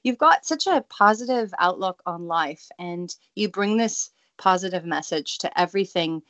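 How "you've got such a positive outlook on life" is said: pleading request. Retold or imitated. Host replaying her interview request to the guest, playfully pleading. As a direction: beg for an interview in a much higher voice.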